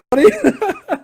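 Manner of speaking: high giddy burst of laughter; high squealing laugh; excited laugh. Real, not acted. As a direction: let out a thrilled laugh. Thrilled as the shot flies.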